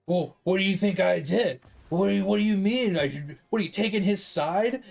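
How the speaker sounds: mildly imitated indignant comeback; mock snapping. Retelling wife snapping at husband over her boss, mildly indignant. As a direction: play the wife taking offence, lightly. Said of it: "she kinda snapped on him".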